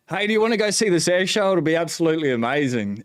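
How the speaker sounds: quick, high, eager retold invitation; eager pitch. Asking his wife to skip lunch for the air show, eager and quick. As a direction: sell the idea with a rush of excitement.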